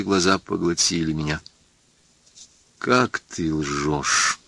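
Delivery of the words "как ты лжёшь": low, soft and very slow; very quiet. Acted. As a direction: breathe the reproach almost inaudibly. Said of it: "сказала она тихо, совсем тихо".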